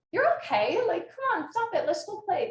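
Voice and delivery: imitating kids hurrying a friend along; imitated dismissive coaxing. Voices friends brushing off upset child.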